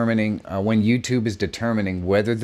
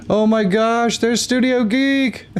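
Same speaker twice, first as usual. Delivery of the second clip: high, drawn-out excited greeting; light up at a friend's arrival; 13 semitones higher, 5 dB louder, slower than usual. Real, not acted.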